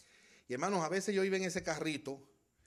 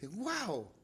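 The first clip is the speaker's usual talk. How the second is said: laughing wow; 7 semitones higher than usual. Real, not acted. Laughs at consolation.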